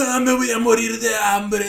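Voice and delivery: goofy starving cartoon voice; Patricio. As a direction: whine like a dopey starfish. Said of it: "están como Patricio".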